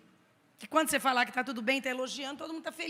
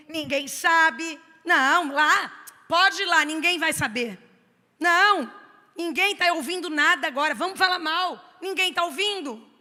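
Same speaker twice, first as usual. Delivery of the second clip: mock tempter; 3 semitones higher, 6 dB louder than usual. Mocks tempter's whisper.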